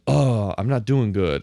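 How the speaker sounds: slow, mock-glum groan; mock dejection. Host mocking the racer's flimsy drama, mock dejection. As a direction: sigh it out slowly in mock defeat. Voices losing racer in film.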